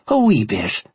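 put-on hammy, overdone Irish accent; bad Irish accent. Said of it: "affecting the worst Irish accent I'd ever heard".

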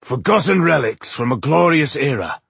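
high-pitched disdain; scornful. A narrator's reading. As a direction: scoff at the whole idea. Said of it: "Gandagar said scornfully".

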